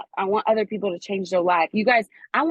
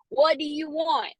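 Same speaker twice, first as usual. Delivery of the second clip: first try at Noah; 5 semitones higher, slower than usual. Retold or imitated. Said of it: "I'm gonna pull a Noah on y'all".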